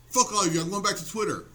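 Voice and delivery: mock-angry threat, punched at the start; sarcastic outburst. Comedian threatening followers in his post, sarcastic mock anger. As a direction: repeat the huffy walkout for laughs. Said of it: "this should tell you I'm being sarcastic".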